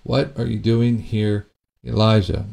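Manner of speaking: God gently questioning the prophet; gentle voice of God. Acted. God's still voice asks.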